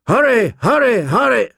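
high, falling calls; urgent trumpet cry. A narrator's reading. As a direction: cry it out like a horn call. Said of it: "The trumpets blew again".

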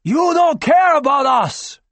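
high, loud, slow outcry; man crying out at the doctor; anguished cry. Acted. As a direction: cry it out in betrayal. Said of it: "Another man cried".

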